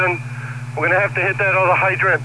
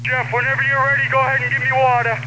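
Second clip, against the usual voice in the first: urgent firefighter radio; 3 semitones higher than usual. Real, not acted. Fire commander shouting orders on radio.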